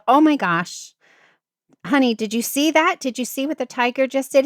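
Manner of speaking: high, excited call to her husband; thrilled wife at the tiger exhibit, excited; excited exclaim. Retold or imitated.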